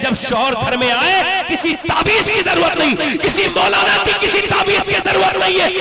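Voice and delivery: high, shouted exhortation at a slow, drawn-out pace; full-force preaching. Acted. Preacher urging sisters and daughters to drop amulets, full-force preaching. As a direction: thunder it phrase by phrase to the whole congregation.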